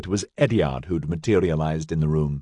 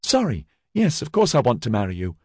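quickly; 3 semitones higher than usual. Acted. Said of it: "she said quickly".

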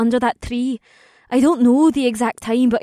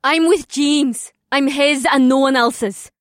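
raised voice; 4 semitones higher, 4 dB louder than usual. Acted. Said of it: "she raised her voice".

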